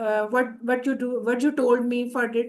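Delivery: very slow English example, word by word. Shown as a demonstration. Teacher demonstrating English usage to students, slowly. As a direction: draw each word out for students. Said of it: "آ".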